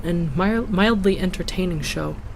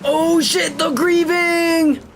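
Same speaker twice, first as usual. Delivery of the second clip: high, slow spooky wail; 11 semitones higher, 3 dB louder, much slower than usual. Acted. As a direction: wail it out like a ghost. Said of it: "You did the spooky voice".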